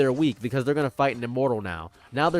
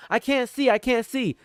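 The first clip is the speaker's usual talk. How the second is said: high panicked squeal, much higher; mocking blinded victim; 10 semitones higher than usual. Mocking foes stuck with mole noses, high and panicked. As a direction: cry out like a blinded, helpless rat. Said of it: "struggling thinking".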